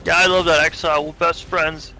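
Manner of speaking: a hint of a defensive skull NPC, fast; mock lonely NPC. Streamer voicing a lonely skull totem, fast and defensive. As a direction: talk fast, brushing off loneliness.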